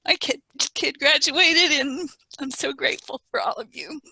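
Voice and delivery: choked up with gratitude for the panel; getting emotional. Real, not acted. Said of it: "I'm sorry, I'm getting emotional".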